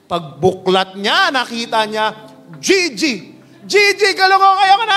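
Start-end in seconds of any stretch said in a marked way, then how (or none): 2.6-5.0 very high, loud sing-song wail; despairing wail. Acted. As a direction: wail over the fish in despair. Worker three despairs.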